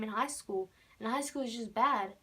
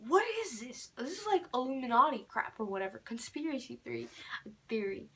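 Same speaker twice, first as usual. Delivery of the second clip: alarmed disbelief; 2 semitones higher, faster than usual. Retold or imitated. Reacting to the empty doorway, spooked and rushing. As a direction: blurt it out, spooked and baffled. Panicked quote after ghost knock.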